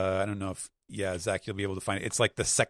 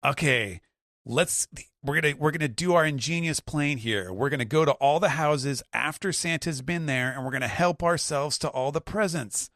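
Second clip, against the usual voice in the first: higher scheming villain voice; scheming pirate captain; 6 semitones higher than usual. Retold or imitated. Buggy pitching his crew a heist, sly higher voice. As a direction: pitch the plan like a sly crook. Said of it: "he's saying".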